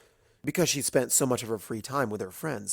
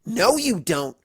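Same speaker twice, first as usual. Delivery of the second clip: quickly; 7 semitones higher, 6 dB louder, slower than usual. Acted. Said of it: "Rainbow said quickly".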